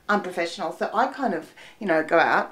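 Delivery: ordinary talk, nothing marked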